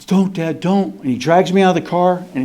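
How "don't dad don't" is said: put-on gasping, higher-pitched child's plea; imitated panicky begging after sharp gasps; frightened pleading. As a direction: re-enact a scared kid begging Dad to stop. Terrified child begging his father.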